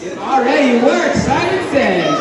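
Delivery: mock Simon says call.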